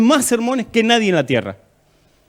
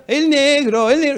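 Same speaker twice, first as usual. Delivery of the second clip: mock taunting; 6 semitones higher than usual. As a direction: imitate kids jeering at a classmate. Imitates children teasing him at school.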